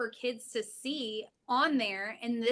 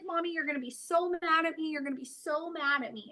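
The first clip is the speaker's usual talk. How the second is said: put-on upset child; 4 semitones higher, faster than usual. Daughter quoted crying hysterically.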